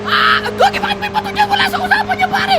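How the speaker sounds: very high, squealing panic; high-pitched frantic gamer whine; panicked whining. Real, not acted. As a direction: wail in alarm while being chased. Panicked flight from attackers.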